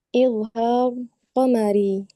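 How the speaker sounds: slow, deliberate term for students; slow, clear repeat. Shown as a demonstration. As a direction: spell the term out slowly. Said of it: "Coba Widya ulang lagi".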